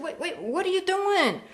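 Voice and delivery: high, loud, desperate cries building to a scream; terrified pleading. Acted. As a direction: beg for your life as you're attacked. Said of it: "He said".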